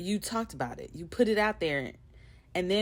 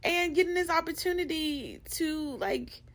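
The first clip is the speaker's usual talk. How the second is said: excited gushing; 7 semitones higher than usual. Retold or imitated. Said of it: "I was texting my friends".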